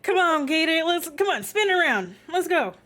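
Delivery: loud hammed-up Southern accent, urging the gator; Southern cowboy coaxing. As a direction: call to the pet gator like a rowdy cowboy. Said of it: "He's like".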